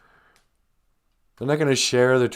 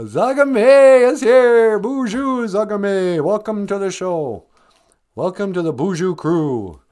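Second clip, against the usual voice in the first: cooing welcome; 8 semitones higher, 7 dB louder, slower than usual. Acted. Welcoming viewer in high voice.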